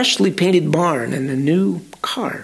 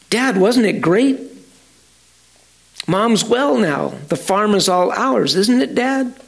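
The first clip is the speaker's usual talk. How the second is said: put-on higher, eager children's voices; excited kids; 5 semitones higher than usual. Children to their father at breakfast, excited. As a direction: cheer it to Dad.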